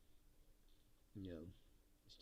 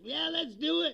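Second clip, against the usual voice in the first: higher, louder eager agreement; mock eager follower; 10 semitones higher, 6 dB louder than usual. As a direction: jump in with silly high enthusiasm.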